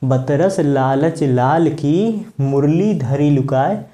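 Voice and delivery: slow, measured couplet recital; verse recitation. Shown as a demonstration. Teacher repeats the example couplet for students, slow recitation. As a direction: recite slowly, drawing out the long vowels. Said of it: "कहा गया है".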